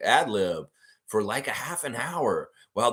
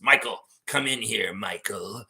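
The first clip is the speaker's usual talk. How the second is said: sinister whispering emperor; Darth Sidious voice. Retold or imitated. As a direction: hiss it like a scheming Sith lord. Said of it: "He's Darth Sidious".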